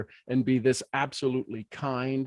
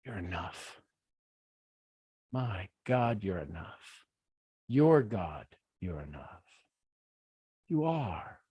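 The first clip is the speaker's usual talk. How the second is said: hushed, softer reassurance; soft affirmation; 8 semitones lower, 8 dB quieter, slower than usual. Real, not acted. Coach softly reassuring the viewers. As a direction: tell them gently they are enough.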